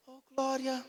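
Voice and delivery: a half-hearted, barely-there shout; feeble glory. Retold or imitated. Churchgoer asked for a shout, giving a feeble one. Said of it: "A pessoa fala assim".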